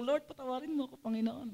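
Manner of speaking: soft, humble mock confession to the Lord; softly voiced guilty prayer; hushed prayer. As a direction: pray it quietly, like owning up.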